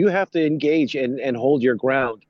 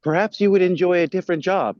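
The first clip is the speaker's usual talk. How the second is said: lightly voiced android, raised pitch; slightly higher, a light touch of character; Data; 6 semitones higher than usual. Data steps up with a suggestion, lightly voiced character. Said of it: "Data steps up and he says".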